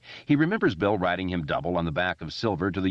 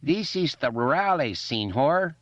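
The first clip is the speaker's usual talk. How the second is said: higher mock Mexican bandit voice; Mexican bandit accent; 8 semitones higher than usual. A narrator's reading. Richie playing a Mexican rurale to the clubhouse, mock accent. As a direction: put on a hammy Mexican accent. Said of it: "speaking in his Pancho Vanilla voice".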